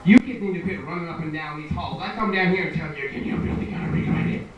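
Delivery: starts scolding, turns menacing mid-sentence; threatening uncle. Retold or imitated. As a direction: scold the kids, then drop into a threat. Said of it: "His voice becomes more threatening".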